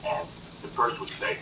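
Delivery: usual speaking voice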